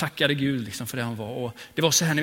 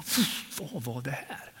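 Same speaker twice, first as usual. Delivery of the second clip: omtumlad; 7 dB quieter, slower than usual. Retold or imitated. Retold stunned thought.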